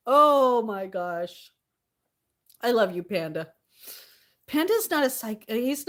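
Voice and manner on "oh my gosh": drawn-out oh my gosh. Real, not acted. Amazed streamer repeats exclamation.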